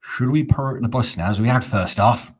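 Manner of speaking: exaggerated Devon accent turning into Dagenham; hammed-up Devon-to-Dagenham attempt. Shown as a demonstration. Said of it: "That was Devon into Dagenham".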